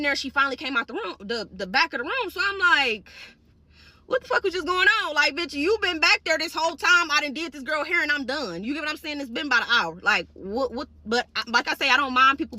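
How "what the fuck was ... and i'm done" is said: indignant rant, higher and louder at the start; acted-out exasperation. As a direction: retell it as a fed-up outburst. Acted outburst at absent coworker.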